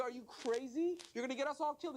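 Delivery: high-pitched mock panic; alarmed protest. Body parts pleading with the reckless tongue, mock alarm.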